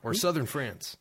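a lightly put-on French accent, reading a definition aloud; hammed-up French accent, savouring the fancy words; terrible French accent. Host reads the charcuterie definition to his cohost in a terrible French accent. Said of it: "I'll stop with my terrible French accent".

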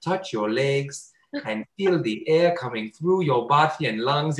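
lightly imitated, slow Indian accent; weird Indian accent. Guided meditation guy telling listeners to breathe, mock Indian accent. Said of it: "weird Indian accent".

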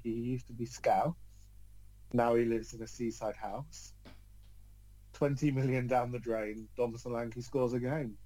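slow, flat, bored recitation; bored monotone. Shown as a demonstration. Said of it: "They don't say it like a bored student".

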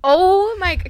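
shocked gasp. Real, not acted. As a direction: caught off guard, blurt it out. Shocked at rowboat joke.

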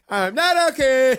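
mock Oprah. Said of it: "You sound like you're coming over".

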